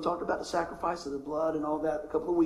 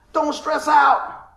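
a slow, shouted warning, much higher and louder; sudden shout; 9 semitones higher, 9 dB louder, much slower than usual. Acted. Pastor shouting the anxious voice at his congregation, slow and loud. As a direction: bellow it out slowly like a panicked alarm.

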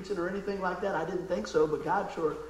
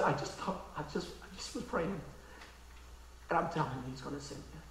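hushed, near-whispered and much softer; soft old lady; 4 semitones lower, 12 dB quieter than usual. Retold or imitated. Old neighbour quietly telling the pastor she prayed, hushed. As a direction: murmur it gently like an old woman.

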